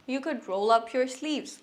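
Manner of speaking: each word said slowly for learners; slow model sentence. Shown as a demonstration. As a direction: spell it out slowly for the class. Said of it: "ধরেন, বন্ধুকে বলছেন".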